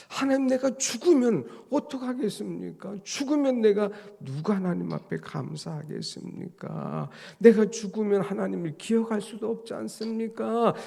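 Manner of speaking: high, loud bargaining with God; desperate plea. Retold or imitated. Preacher voices David pleading not to die, high and urgent. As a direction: press God with urgent questions.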